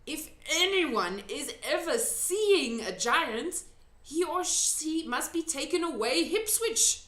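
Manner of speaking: lightly voiced gentle giant; big friendly giant. A narrator's reading. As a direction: answer slowly like a kindly giant. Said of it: "the big friendly giant answered".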